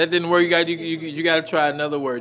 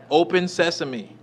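slow demo; 2 semitones higher, much slower than usual. Shown as a demonstration. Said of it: "You gotta say".

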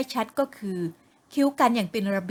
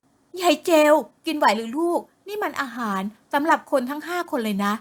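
mother calling out, higher; worried mother; 5 semitones higher than usual. Acted. Mother calls to her daughter about the food, worried voice. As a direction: fret at her, half joking.

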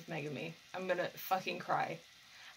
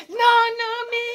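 shouted call; 13 dB louder, slower than usual. Real, not acted. Fan calling for Nanami, shouting loud. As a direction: yell the name much higher and louder.

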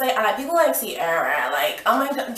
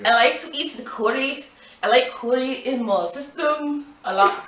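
put-on Indian accent. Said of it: "That's not Indian".

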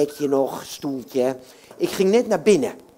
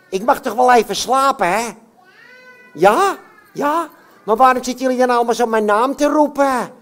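puppet voice; 3 semitones higher than usual. Acted. Puppet Jan Klaassen voice.

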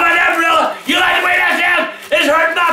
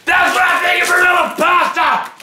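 angry shouting. Acted. Smashing pasta in rant.

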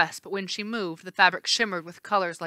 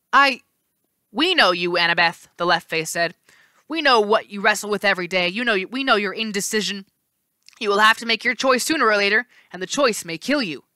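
menacing Janus; 2 semitones higher, 3 dB louder than usual. Acted. Janus left face voiced.

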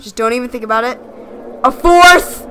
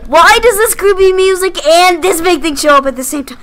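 scared; 5 semitones higher, 7 dB louder than usual. Real, not acted. Creepy monster appears.

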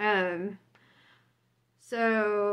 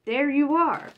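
smiling monk; 5 semitones higher, 6 dB louder than usual. Retold or imitated. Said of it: "the monk smiles".

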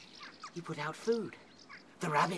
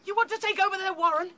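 high, loud rebuke; angry scolding; 13 semitones higher, 4 dB louder than usual. Acted. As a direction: shout down the crowd. Fiver scolding the mob.

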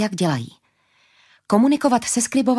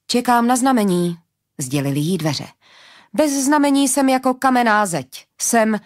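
a hint of a stiff magic door; a scribed door answering Sansie, lightly voiced; talking door; 3 semitones higher than usual. Enchanted door speaks.

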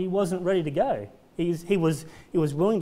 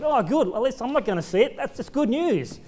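higher, light laugh of relief; smug relieved Hezekiah; 6 semitones higher than usual. Retold or imitated. Preacher mocks Hezekiah relieved the loss comes after his day. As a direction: sound glad it won't be him.

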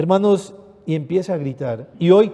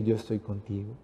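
tender reassurance; 6 semitones lower, 12 dB quieter than usual. Acted. Jesus's words voiced softly.

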